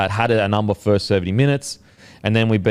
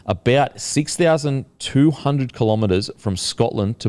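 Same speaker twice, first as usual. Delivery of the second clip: measured podcast headline read; news story read. Real, not acted. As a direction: present the odd story like a newsreader. Continues reading the news story.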